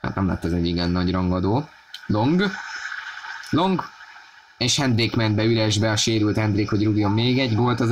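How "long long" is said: excited. Real, not acted. Rising call on a chance.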